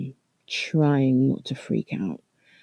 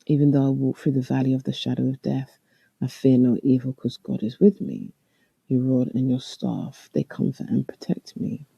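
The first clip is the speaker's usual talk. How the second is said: reciting a psalm. Retold or imitated. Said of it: "recite the twenty-third Psalm".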